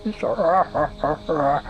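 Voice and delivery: loud, put-on ogre sobbing; mock crying. Game master acts out a crying ogre, mock sobbing. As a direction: wail in exaggerated sobs. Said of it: "this one is crying".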